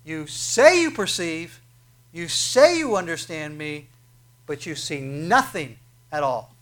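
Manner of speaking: stern rebuke. Acted. Jesus confronting Nicodemus's claim, slow and stern. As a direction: press each word home slowly.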